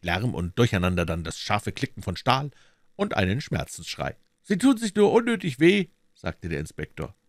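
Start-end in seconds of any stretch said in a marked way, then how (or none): 4.4-5.9 high, firm official voice; the inspector keeps the arrested man in check; stern policeman, pitched up; inspector's voice. Acted.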